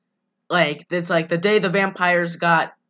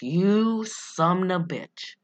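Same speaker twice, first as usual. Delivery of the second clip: drawn-out, understated mock fury; slow mock curse; 4 dB quieter, much slower than usual. Bella cursing Jacob, slow mock anger. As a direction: curse him slowly, savoring it. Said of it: "She's like".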